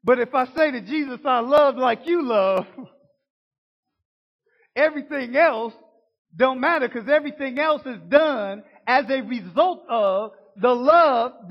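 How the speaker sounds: loud, building sermon climax; fervent preaching. Real, not acted. Preacher pushes loud to the congregation about love. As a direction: preach it out with rising fire.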